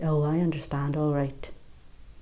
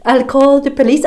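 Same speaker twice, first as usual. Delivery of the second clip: higher, louder sneering mimic of his whine; mocking the coward; 8 semitones higher, 9 dB louder than usual. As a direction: parrot his threat with scorn. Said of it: "the snivelling little bastard says".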